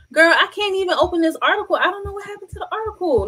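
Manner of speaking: frazzled high murmur; exasperated disbelief. Real, not acted. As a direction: rattle it off in confusion. Still can't open article.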